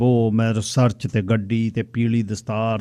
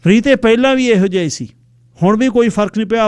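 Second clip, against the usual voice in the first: mocking woman; 10 semitones higher, 4 dB louder than usual. Woman mocks him to friend.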